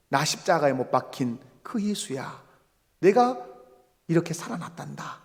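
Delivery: kindly, understated self-introduction; tender reassurance. Acted. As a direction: quietly reassure frightened followers. Jesus gently revealing himself to disciples.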